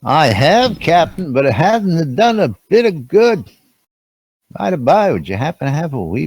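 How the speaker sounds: high, hammed-up Scottish engineer voice; bad Scottish accent. Host to the captain on the bridge, in a bad Scottish accent. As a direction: ham up a Scotty brogue, badly. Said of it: "That was a bad accent".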